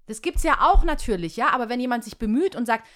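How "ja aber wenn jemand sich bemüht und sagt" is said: ordinary talk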